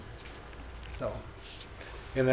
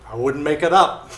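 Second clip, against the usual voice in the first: laughing; 3 semitones higher, 5 dB louder than usual. Retold or imitated. Retelling woman's words, laughing.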